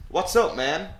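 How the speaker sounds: lightly put-on American accent; slightly amateurish American accent. Shown as a demonstration. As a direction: try out an American accent on a casual greeting. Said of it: "That was my American accent".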